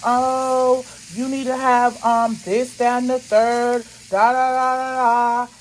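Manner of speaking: mock someone trying to be funny; mocking retold quote. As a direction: derisive parroting of another woman. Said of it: "she was trying to be funny".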